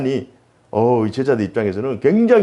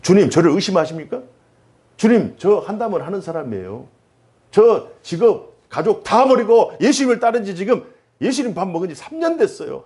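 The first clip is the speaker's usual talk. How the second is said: indignant Peter; 6 semitones higher than usual. Retold or imitated. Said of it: "막 화를 내면서".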